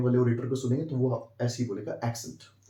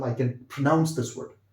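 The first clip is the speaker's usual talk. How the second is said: I can pronounce this word spoken slowly; slow model sentence; much slower than usual. Shown as a demonstration. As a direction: say it slowly for learners to copy. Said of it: "बोल के दिखा सकता हूँ".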